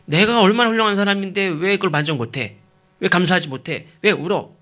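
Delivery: high-pitched, insistent complaining questions; self-centred indignation. Shown as a demonstration. Husband demanding gratitude from his weeping wife, indignant. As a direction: complain as the underappreciated great husband. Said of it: "늘 자기중심적인".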